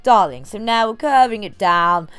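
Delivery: lightly voiced grand dame, slow and drawn out; a hint of a theatrical diva, slowly; Meredith's voice. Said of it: "in Meredith's voice".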